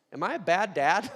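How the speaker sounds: mock anguish. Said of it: "I've been asking, like, "God".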